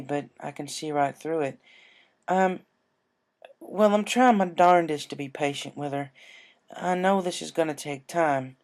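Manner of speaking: patient worried farm mare; worried Applejack. Acted.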